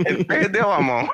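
laughing through the words. Real, not acted. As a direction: laugh it out, amused. Laughing at punchline.

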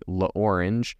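La Orange said like the English fruit, OR-inj; American pronunciation. Shown as a demonstration. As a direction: say La Orange with a plain American R and a J ending. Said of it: "So an American might say".

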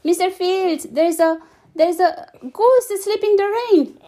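high, loud breathless call; arriving out of breath, calling. A narrator's reading. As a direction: shout the news as you arrive. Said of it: "he called as he ran".

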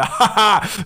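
put-on boisterous ha-ha-ha; imitated hearty laugh. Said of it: "lacht so rum, ist so übel Dings".

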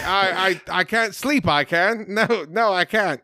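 light imitation of a British accent. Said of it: "Oscar Isaac doing a British accent".

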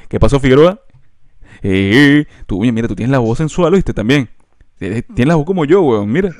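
lightly mimicked hyped-up pal; mock admiring buddy patter; imitating electric classmate. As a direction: tease with an over-keen schoolmate greeting. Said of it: "era así eléctrico, como que".

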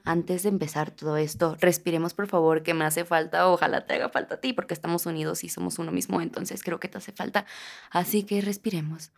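soft, calm invitation to breathe; guided breath. Acted. Leads a breath.

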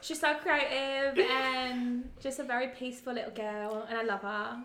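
put-on light Essex-style British accent; a mild British accent, played casually. Asked for a British accent, describing Caitlin. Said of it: "in your British accent".

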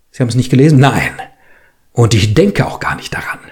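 reads the story aloud, lively voicing the quarrel; measured audiobook narration with acted dialogue. A narrator's reading. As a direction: tell it like a reader at a literary evening.

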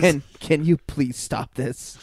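deep disappointed tone. Retold or imitated. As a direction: let the disappointment sink in quietly. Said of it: "that deep, disappointed tone".

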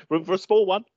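high, loud sing-out; acted seat request. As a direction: pipe up playfully to squeeze in. Acts out asking for a seat.

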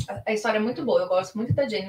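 usual speaking voice

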